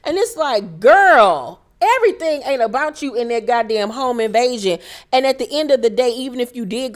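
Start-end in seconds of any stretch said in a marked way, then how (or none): 0.8-4.8 exasperated callout. Real, not acted. Scolding Dorit.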